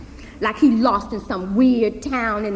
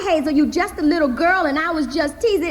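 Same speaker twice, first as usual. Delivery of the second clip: uncle's original; 6 semitones higher, 4 dB louder than usual. Acted. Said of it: "just like he said it".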